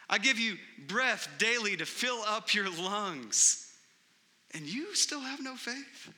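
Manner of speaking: pressing each gift home; Jesus asking. Retold or imitated. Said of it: "Jesus would say to a lot of us".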